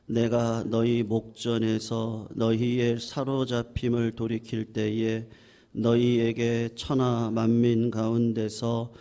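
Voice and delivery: slow, level-pitched reading aloud; scripture reading. Real, not acted. Pastor reads scripture to the congregation in a solemn monotone. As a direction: read it in an even, measured monotone.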